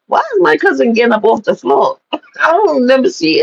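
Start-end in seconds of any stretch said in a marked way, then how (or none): 0.1-2.0 mildly baffled question, pitched up; confused. Retold or imitated. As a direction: wonder aloud, retelling your bewilderment. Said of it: "'Cause I was confused".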